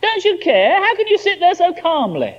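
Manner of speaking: indignant snap. Acted. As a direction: snap it at them in outrage. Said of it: "snapped that kind of indignant recrimination".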